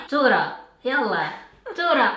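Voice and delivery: squeaky helium call; high, loud helium voice; very high pitch. Real, not acted. Helium voice calling out.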